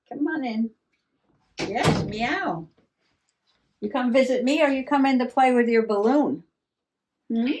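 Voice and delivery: cat talk. Real, not acted.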